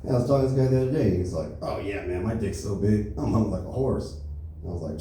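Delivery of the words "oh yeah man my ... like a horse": lightly voiced cocky guy bragging; guy boasting about his size, lightly voiced; boastful bro voice.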